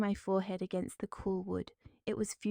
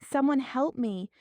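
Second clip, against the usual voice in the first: higher, louder cry; shouting for help; 5 semitones higher, 5 dB louder than usual. Acted. Trapped woman calls for anyone, shouting. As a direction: call out for anyone.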